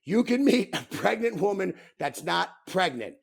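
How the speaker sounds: deliberate emphatic repeat; repeated for emphasis. Real, not acted. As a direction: say it again so it lands. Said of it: "I'm gonna say it again".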